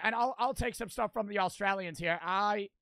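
mock British sliding into Australian; Australian accent slip. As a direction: let the fake British drift Australian. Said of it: "switched to an Australian accent".

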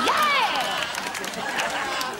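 very high, drawn-out shout; howling shout. Acted. Actor overdoing his big line in a take, howling shout. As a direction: howl it out, long and high. Acting the scene after "Action.

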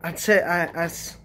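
stumbling stammer on the words; tripping over each word; stuttering. Real, not acted. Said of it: "whew, I'm stuttering".

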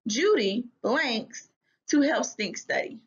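teacher models the sentence stem for the class, slow and clear. Shown as a demonstration. Teacher to class, reading the answer stem slowly. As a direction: read the blank slowly and clearly. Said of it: "use this sentence stem".

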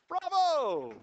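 high, booming bravo; loud cheer. Real, not acted. Teacher applauding before the class, loud high cheer. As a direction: shout it out in high-pitched acclaim.

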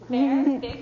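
huge loud bellow; big bear voice. Shown as a demonstration. Coach demanding the group go big, huge bellow. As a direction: bellow as loud as you can. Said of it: "big voice".

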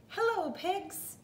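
high, cheery duck hello; Duck's greeting. A narrator's reading. Duck greeting Cow from his bike, high and chirpy. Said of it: "said Duck".

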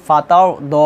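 "ফাতাও দ" with a long final vowel; "দ" drawn out at the stop; one-alif stretch. Shown as a demonstration. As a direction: hold "দ" open for one alif. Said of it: "এক আলিফ টান হবে".

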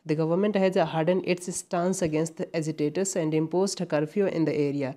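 each word laid out slowly and deliberately; reading the test sentence slowly for students; slow exam read-out. Shown as a demonstration. Teacher reads the exam sentence to the class, slow and deliberate.

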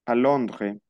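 "Londres" with the last S left off; silent final S. Shown as a demonstration. Teacher models Londres for a student, silent final S. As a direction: say "Londres" without sounding its final S. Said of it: "La S no se pronuncia".

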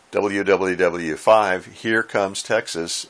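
slow, deliberately stretched call sign; drawn-out call sign. Retold or imitated. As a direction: spell it out slowly, as if repeating it yet again. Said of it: "kept responding with".

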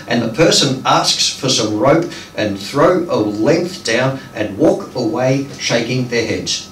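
measured phrases with pauses between; deliberate storytelling poetry delivery; poem reading. Acted. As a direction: read a dream poem aloud to an audience. Reads numbered short poem.

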